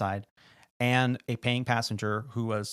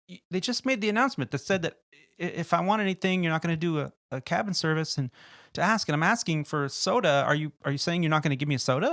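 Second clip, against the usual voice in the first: higher-pitched, rapid indignant protest; indignant disbelief; 4 semitones higher, faster than usual. Retold or imitated. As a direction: sputter in disbelief at being refused. Passenger protests being refused a soda.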